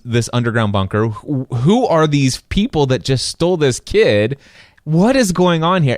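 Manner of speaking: rising, baffled questions; excited bewilderment. Retold or imitated. Reliving first watching Lost, baffled and excited. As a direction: pile on the confused questions. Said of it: "And I'm like".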